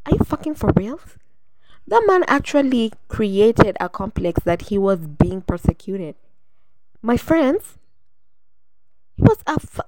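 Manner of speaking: high incredulous outrage building; rising disbelieving rant; exasperated outburst; outraged. Real, not acted. Rising outrage about Hitler.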